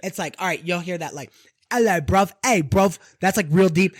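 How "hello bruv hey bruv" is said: put-on London accent. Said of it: "straight London".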